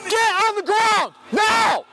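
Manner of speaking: shouted surrender demands. Real, not acted. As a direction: bark it over and over. Officer repeating arrest orders.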